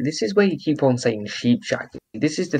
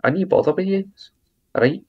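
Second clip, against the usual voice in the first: put-on Scottish accent, higher; 5 semitones higher than usual. Shown as a demonstration. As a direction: banter in a mock Scottish accent. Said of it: "why don't you do your Scottish accent?".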